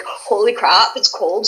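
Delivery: tight-mouthed Canadian, as if frozen; cold-stiffened Canadian accent. Shown as a demonstration. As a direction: barely move your mouth, Canadian style. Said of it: "you don't move your mouth".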